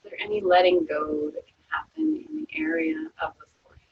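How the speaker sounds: calm, unhurried body-scan voice; guided meditation. Acted. Yoga teacher guiding students through a resting body scan, calm meditation voice.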